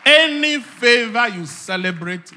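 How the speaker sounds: loud, high restatement; preacher's proclamation. Real, not acted. Preacher restating a key principle, proclaiming it loudly. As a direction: ring it out over the congregation.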